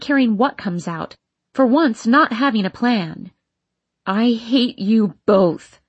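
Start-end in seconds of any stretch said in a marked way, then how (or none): 4.0-5.8 grind the words out slowly; growled through teeth. Acted. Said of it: "I growl through my teeth".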